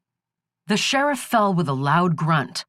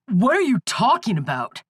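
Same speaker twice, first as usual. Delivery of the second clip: cried out; 5 semitones higher than usual. A narrator's reading. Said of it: "Skip cried".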